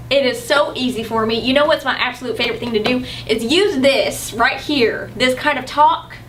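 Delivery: put-on drawling Southern US accent. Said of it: "I always can pull out the Southern".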